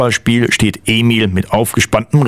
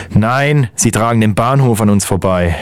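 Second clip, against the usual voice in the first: annoyed. Acted. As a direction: answer as if tired of silly questions. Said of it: "sagt der Kapitän genervt".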